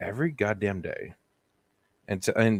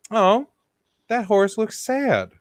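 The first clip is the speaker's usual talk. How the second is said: put-on old lady voice; 12 semitones higher, 4 dB louder, slower than usual. Old English lady voiced in story.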